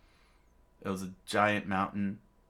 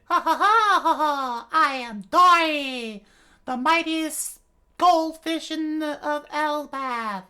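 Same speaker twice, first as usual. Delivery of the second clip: booming giant; 11 dB louder than usual. Acted. Giant introduces himself laughing.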